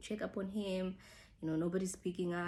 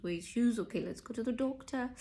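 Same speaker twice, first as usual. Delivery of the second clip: frantic; 5 semitones higher than usual. Retold or imitated. Girlfriend hunting for his shoes before the doctor, mildly frantic. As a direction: hurry them along in a mock fluster.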